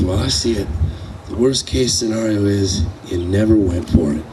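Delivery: steady and unhurried, reassuring a worried son; calm. Retold or imitated. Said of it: "he very calmly".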